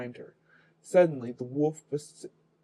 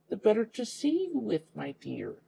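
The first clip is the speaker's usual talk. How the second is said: higher sly fake-granny voice; the wolf to the girl, sly and higher; 7 semitones higher than usual. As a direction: coo it slyly in a raised voice.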